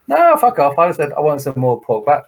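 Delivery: mock brush-off. Guest waves off the challenging knight with a mock loud retort. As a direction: shove him off and demand pork.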